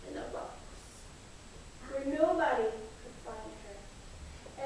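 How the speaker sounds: whispered; spooky storyteller whisper; hushed. A narrator's reading. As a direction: whisper it like a secret. Hushed repeat of the box.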